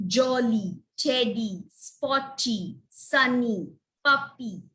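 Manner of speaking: "jolly", "teddy", "spotty", "sunny", "puppy" ending in clear "ee"; long E endings. Shown as a demonstration. Teacher giving Y-ending examples, long E endings. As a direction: separate each word, lengthen the final ee. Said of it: "we'll say long E sound".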